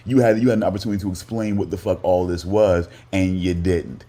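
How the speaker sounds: frustrated co-host calling Lou out; heated anger. Real, not acted. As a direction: confront him with what he failed to do.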